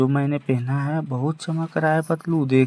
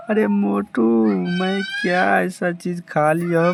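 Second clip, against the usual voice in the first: shocked shout; 4 semitones higher than usual. Acted. Patlu calls out in shock.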